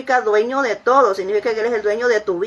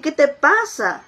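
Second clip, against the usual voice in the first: slow, higher-pitched tender question; tender parent; 4 semitones higher, slower than usual. Acted. Parent moved by crying child, tender. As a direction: draw it out with parental concern. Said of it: "te llama a la ternura".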